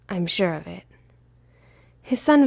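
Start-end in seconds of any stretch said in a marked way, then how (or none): 0.1-0.8 gentle whispered reassurance; a father whispering comfort. A narrator's reading. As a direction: breathe it softly to the boy. Father tenderly reassures son.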